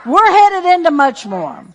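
loud, insistent preaching; rising preacher cadence. Real, not acted. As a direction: drive it home to the church. Preaching at full force.

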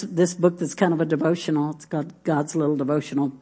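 ordinary delivery

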